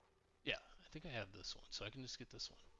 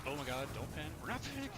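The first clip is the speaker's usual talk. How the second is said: rising panic; 3 semitones higher, 5 dB louder, faster than usual. Real, not acted.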